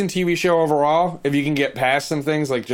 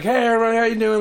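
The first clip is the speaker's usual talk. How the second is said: higher, brighter mock stage greeting; imitating a singer hyping the crowd; 7 semitones higher, faster than usual. Lead singer greets the crowd from stage, mock hype. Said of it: "He's like".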